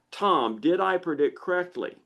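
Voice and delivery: anxious, rising voice of the insecure lizard brain; a hint of a fretful inner voice asking for approval; neurotic lizard brain. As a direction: play the brain as a nervous little worrier. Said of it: "because it's neurotic and insecure".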